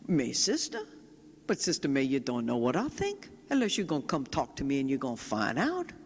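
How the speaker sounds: lightly imitated Frenchy Cajun accent; a touch of Louisiana Cajun French in the retelling. Bereaved father gently challenging the nun, lightly imitated Cajun accent. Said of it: "in this Frenchy little accent, this Cajun accent".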